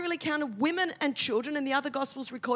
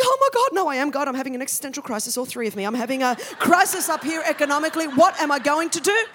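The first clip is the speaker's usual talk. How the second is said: God panicking; 5 dB louder, faster than usual. Retold or imitated. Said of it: "I imagine God's in heaven".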